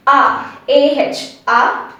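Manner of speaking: "A" said as an open "ah"; open A sound. Shown as a demonstration. Teacher replaces the O for learners, open "ah" sound. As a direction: sound out "A" as "ah", spelling it A H. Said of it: "bring a A over there".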